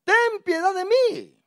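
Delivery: high, slow plea for mercy; publican pleading. Retold or imitated. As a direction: beg like the tax collector beating his chest. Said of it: "y dice".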